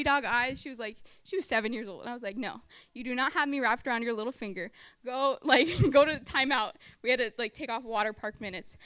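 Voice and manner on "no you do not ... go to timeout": louder, stern dismissal; a firm telling-off breaking into a laugh; firm order. Retold or imitated. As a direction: send the kid to timeout with a laugh at the end. Ordering child to timeout.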